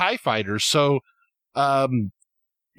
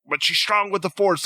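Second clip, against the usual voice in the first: higher, protesting tone; defensive Kylo; 5 semitones higher than usual. Retold or imitated. Kylo defending himself to Snoke, higher and protesting. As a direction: justify yourself to the boss. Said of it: "like he's defending himself".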